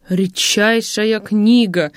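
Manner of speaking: slow, savoring admiration; admiring exclaim. Acted. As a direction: relish every word of it. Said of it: "восхищался он". (медленно, с восхищением)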